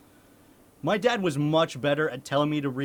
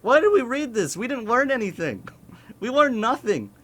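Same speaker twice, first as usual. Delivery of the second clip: higher and louder, laughing in mock outrage; laughing outraged retort; 8 semitones higher, 6 dB louder than usual. Retorting to the teacher about the book, laughing and loud. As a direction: throw it back at the teacher with a laugh. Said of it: "I'm like".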